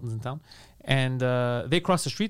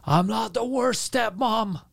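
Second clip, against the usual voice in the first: put-on drunk woman voice; 7 semitones higher, much slower than usual. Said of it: "she starts screaming at me".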